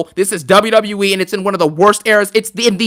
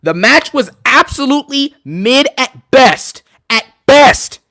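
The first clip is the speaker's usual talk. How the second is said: sarcastic verdict; 5 semitones higher, 4 dB louder, slower than usual. Real, not acted.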